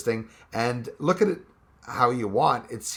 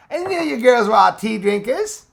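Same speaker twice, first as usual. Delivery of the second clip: higher, louder, playful teasing repeat; teasing girls; 10 semitones higher, 9 dB louder than usual. Pretend. Teasing the girls in chat who drink tea, in a loud, high, playful voice.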